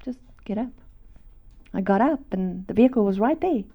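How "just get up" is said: softly coaxing, fading to a hush; soft gentle voice. Retold or imitated. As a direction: gently urge them to rise. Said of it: "I heard a soft, gentle voice".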